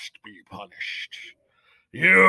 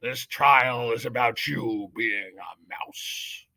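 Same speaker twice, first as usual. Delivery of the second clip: head mouse shouting from atop the bricks at Despero; shouting judge; 9 dB louder than usual. A narrator's reading. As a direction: thunder it down from above. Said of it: "shouted the most very honored head mouse".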